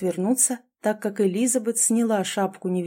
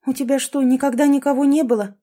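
high, louder astonished asking; surprised question; 5 semitones higher, 5 dB louder than usual. A narrator's reading. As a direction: ask in disbelief. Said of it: "удивилась Элизабет". (удивлённо)

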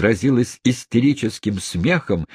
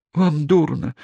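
alarmed; 9 semitones higher than usual. Acted. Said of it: "встревожилась Рэйчел".

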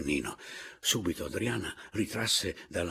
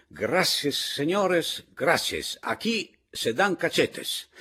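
high, loud screeched protest; shrieking in Spanish; 10 semitones higher, 9 dB louder, much slower than usual. A narrator's reading. Pepita Pantogada protests to the company, shrieking. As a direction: shriek it, drawing out the last question. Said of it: "E Pepita Pantogada strillava".

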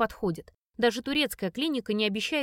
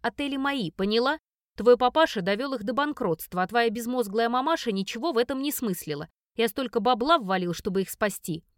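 angry stepfather. Acted. Stepfather shouting back, threatening.

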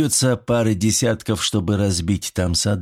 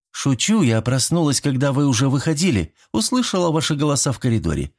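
a touch higher, mock-scolding woman's voice; teasing female neighbour; 5 semitones higher than usual. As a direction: playfully chide the lovebirds. She reveals it was a joke. (лёгкий шутливый упрёк соседки)

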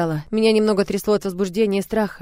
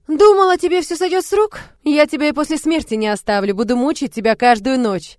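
high, loud mock ghost threat; ghostly wail; 7 semitones higher, 6 dB louder than usual. A narrator's reading. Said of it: "заунывно взвыла". (завывающий голос призрака)

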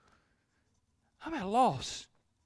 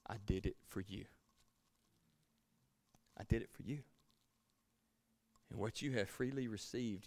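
whispered by God; 7 semitones lower, 15 dB quieter than usual. Retold or imitated. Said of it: "he whispered in my ear".

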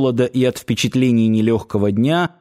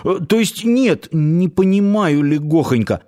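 higher-pitched, hesitant youth; puzzled youth; 6 semitones higher than usual. A narrator's reading. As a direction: correct yourself and ask, pitched up. Youth hastily corrects himself, asking.

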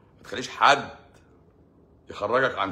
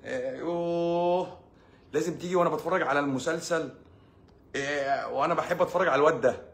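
mock moody wife; 6 semitones higher than usual. Wife pushing husband away during her show, whiny and higher. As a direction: whine like a fed-up wife pushing him off. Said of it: "هتيجي تقعد جنبها".

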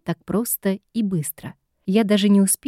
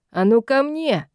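bark; 5 semitones higher than usual. A narrator's reading. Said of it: "гаркнул тролль".

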